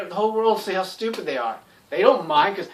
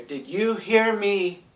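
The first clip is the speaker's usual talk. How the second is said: calm slow question; much slower than usual. Shown as a demonstration. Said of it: "You say".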